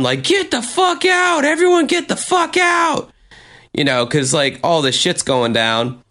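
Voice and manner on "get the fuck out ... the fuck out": much higher, imitating a bouncer yelling; shrill mock yell to clear the bar. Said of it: "he's yelling at everyone".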